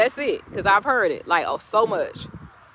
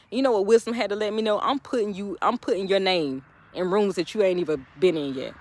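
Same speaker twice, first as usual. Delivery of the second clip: quick preacher's build about God's promises; preaching. Acted. To struggling creators, a fired-up preaching voice. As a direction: rise into a sermon cadence.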